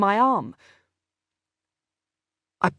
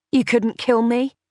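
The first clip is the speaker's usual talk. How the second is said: higher, scornful and defiant; scornful defiance; 4 semitones higher, 3 dB louder than usual. Acted. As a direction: dare her, full of scorn. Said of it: "scornful defiance behind her words".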